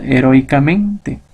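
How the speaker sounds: slow "Heroicamente", leaning on MEN; stress on MENTE. Shown as a demonstration. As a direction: draw out "Heroicamente" with the accent on the "men". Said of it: "En el término mente".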